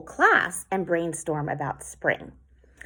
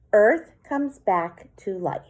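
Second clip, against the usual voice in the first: poem reading; 3 dB louder than usual. Shown as a demonstration. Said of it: "And then my last line".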